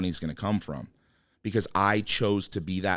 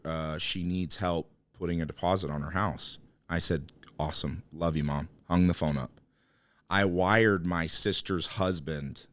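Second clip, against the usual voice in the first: holding back tears; 3 semitones lower than usual. Real, not acted. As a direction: keep it together while the feeling rises. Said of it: "now I'm gonna get emotional".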